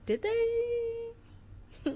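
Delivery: high, crying voice cracking; real tears breaking through the question. Real, not acted. Moved to tears over Adam and Eve, crying. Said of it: "I'm gonna start crying now".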